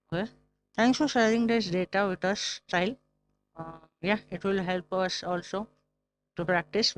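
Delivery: talking with a pencil in mouth. Real, not acted. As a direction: speak around a pencil held in mouth. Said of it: "keeping a pencil in our mouth".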